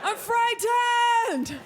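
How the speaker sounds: very high, loud, slow hammed-up screams; literal screaming. Playing a literal screamer to mock the guys' bragging. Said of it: "take that too literally".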